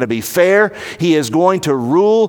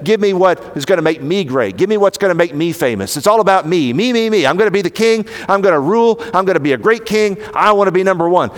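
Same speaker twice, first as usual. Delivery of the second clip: higher-pitched, me-first demands; mock self-centered boasting; 5 semitones higher, faster than usual. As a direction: act out a self-obsessed would-be king. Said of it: "Solomon could have said".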